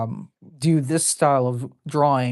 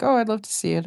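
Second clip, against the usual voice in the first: lightly voiced keen friend, higher pitch; imitated friend; 9 semitones higher, faster than usual. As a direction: quote a friend a little higher. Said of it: "and she's like".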